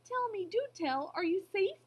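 high, pressing questions; urgent cry. A narrator's reading. Elephant checking his friends are safe, urgent cry. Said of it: "cried the elephant".

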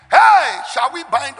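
high, loud call to attention; mock rallying shout. Preacher imagining disciples rising to fight the storm, mock shout. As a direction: call out as if starting spiritual warfare.

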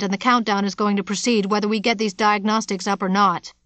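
loud, furious tirade; angry ranting. Acted. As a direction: storm about shouting at everyone. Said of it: "Bear Dooley stormed around".

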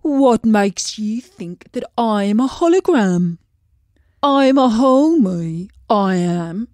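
a gloomy fish sighing over its looks. A narrator's reading. Fish to the princess, gloomy and self-pitying. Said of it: "fish explains its plight".

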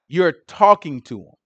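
a slow, blunt "talking to him"; flat out. Retold or imitated. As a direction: lay it down flat out, no softening. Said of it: "He told her flat out".

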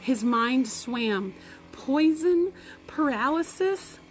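reading a story aloud to the class; lively read-aloud voice; story narration. A narrator's reading. Teacher reads novel to class.

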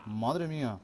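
loud triumphant "toma"; excited cheer. Real, not acted. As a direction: celebrate the kill out loud. Remate en el juego. (grito de victoria)

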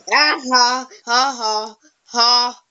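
mock laugh. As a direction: laugh mockingly, one beat at a time. Taunts opponent with fake laugh.

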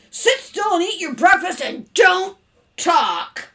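loud, slow, emphatic command; shouting. A narrator's reading. Father ordering his son to eat, shouting. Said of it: "shouted Mister Carmody".

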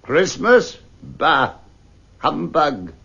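Scrooge barking a dismissive reply; grumpy uncle scoffing at the nephew's greeting; scornful old miser. Acted. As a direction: dismiss him with contempt.

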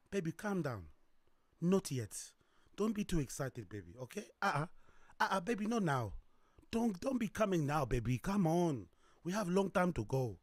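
soft, low coaxing to her lover; woman soothing an eager lover; teasing woman. Acted. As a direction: hold him back gently, teasingly. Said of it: "But I'm telling him".

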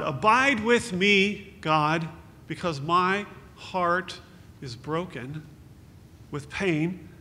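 a slow heartfelt plea, swelling then fading; crying out to God. Acted. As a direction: plead with God from a broken heart. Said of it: "as you would cry out to God".

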